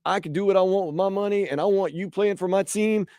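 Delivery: rich oilman with a light Texas twang; halfway Texas accent. Acted. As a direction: play a Texas booster, accent only half on. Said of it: "putting on this halfway Texas accent".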